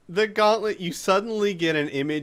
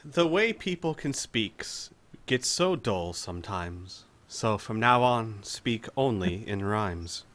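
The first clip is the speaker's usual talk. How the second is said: slow, lower, measured incantation; slow spell reading; 6 semitones lower, 3 dB quieter, slower than usual. Acted. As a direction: read the curse out slowly, like a spell.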